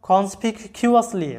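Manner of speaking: কনসপিকিউয়াসলি said slowly, each syllable spaced; slow model word. Shown as a demonstration. Teacher introducing a new word to students, slow. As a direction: draw out কনসপিকিউয়াসলি for learners. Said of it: "এরপরে শব্দটা দেখো".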